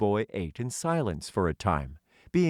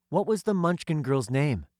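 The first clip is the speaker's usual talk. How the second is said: put-on lightly raised young wanderer's question; curious boy; 8 semitones higher than usual. Woot asking the Tin Man about the girl, lightly voiced boy. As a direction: ask eagerly but gently.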